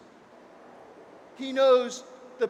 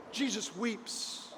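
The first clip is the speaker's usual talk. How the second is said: "Jesus weeps" repeated much softer and slow, almost breathed; hushed repeat; 10 dB quieter, slower than usual. Shown as a demonstration. Preacher repeating the verse to the congregation, hushed. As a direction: let "Jesus weeps" fall to a hush.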